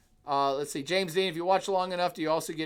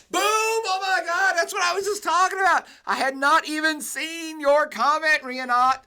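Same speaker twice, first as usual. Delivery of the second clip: much higher and louder, bursting with delight; thrilled outburst; 12 semitones higher, 7 dB louder than usual. Real, not acted. Lecturer thrilled a chatter asked about what he just said, excited outburst. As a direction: jump up in pitch as if a student just read your mind. Chatter raised his exact point.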